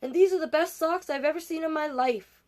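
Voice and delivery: high, loud, gleeful shouting; excited yelling. Acted. Tina runs home and yells about her new socks, loud and gleeful. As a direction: burst in the door crowing about the socks. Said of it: "Tina ran home and yelled".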